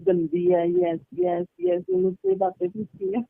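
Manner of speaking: high mocking voice of the gossiping friend. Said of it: "उसने तो सबको बताया". (ऊँची आवाज़ में चुगली की नकल)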